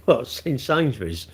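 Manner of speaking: laughing, slow incredulous repeat. Real, not acted. Streamer repeats a viewer's odd comment, amused and incredulous. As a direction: laugh it back in disbelief.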